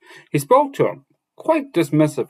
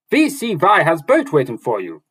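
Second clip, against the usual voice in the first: higher, louder dwarf voice; dwarf tells Rand of the boat, higher; dwarf exclaiming; 6 semitones higher, 4 dB louder than usual. Acted. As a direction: tell him as the dwarf, higher. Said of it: "the dwarf exclaimed".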